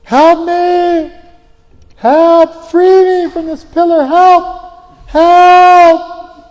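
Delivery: high, loud desperate cries for help; frantic yelling. Retold or imitated. Sadhu clinging to the pillar, yelling for help loudly. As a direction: scream for help as if stuck to a pillar. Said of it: "he started yelling".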